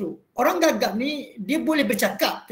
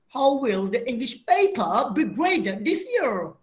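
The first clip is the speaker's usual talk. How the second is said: neutral international English accent, a little slower; international standard English. Shown as a demonstration. Teacher repeating the neutral international English reading for students. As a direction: read it again, neutral and not British. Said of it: "dia tak bunyi pun pronunciation tu macam British".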